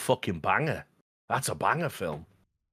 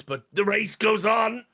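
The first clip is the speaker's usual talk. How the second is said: higher, slow, drawn-out "goes"; mock Heston line; 10 semitones higher, 4 dB louder, slower than usual. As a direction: stretch "goes" out long and high like a hammy villain. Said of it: "And then he goes".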